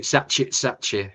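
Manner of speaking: Grimsby accent demo, drawn out. Shown as a demonstration. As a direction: do the name in broad Grimsby. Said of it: "Br-, Grimsby accent".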